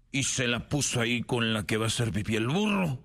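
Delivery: ordinary delivery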